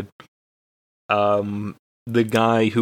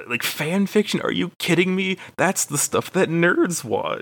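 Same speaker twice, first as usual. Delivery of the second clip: mock scoffing; 8 semitones higher than usual. Retold scoffing at friend.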